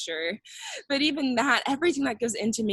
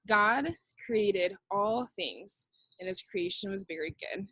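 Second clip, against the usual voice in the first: slow recital; 3 dB quieter than usual. Shown as a demonstration. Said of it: "Do that with me".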